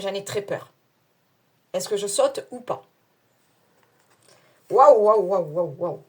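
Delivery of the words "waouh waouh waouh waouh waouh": excited wow. Real, not acted. Thrilled at the jump idea.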